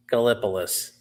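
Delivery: "Gallipolis" said as guh-LIP-uh-liss, falling; corrected pronunciation. Shown as a demonstration. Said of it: "It's pronounced Gallipolis".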